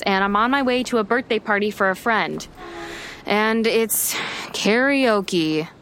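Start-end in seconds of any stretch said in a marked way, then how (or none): 3.3-5.7 slow, reluctant drag; dreading. Acted. Dreading karaoke.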